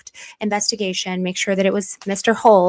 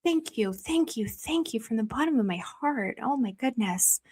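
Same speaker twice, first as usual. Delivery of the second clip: soft heartfelt thanks; 10 dB quieter than usual. Real, not acted. Emotional thanks to a viewer.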